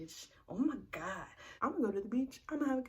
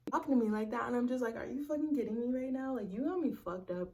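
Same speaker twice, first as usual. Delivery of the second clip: heated outrage; 4 semitones higher, 5 dB louder than usual. Real, not acted. Recalling anger at boyfriend.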